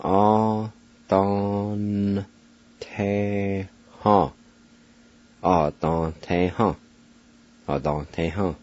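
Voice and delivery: "Ah, don, te, ha" sounded out syllable by syllable, the V silent so only the N is heard; Cherokee pronunciation. Shown as a demonstration. Teacher showing how to say "think" in Cherokee, slowly. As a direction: spell out "Ah, don, te, ha" slowly with clear pauses. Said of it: "It's pronounced like this".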